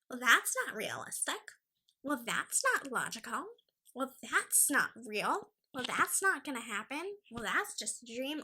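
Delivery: mocking, singsong objections; mimicked naysayer. Vlogger mimicking people who say be realistic, mocking naysayer. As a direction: recite each objection with the same dismissive lilt. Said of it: "I hate people who are like".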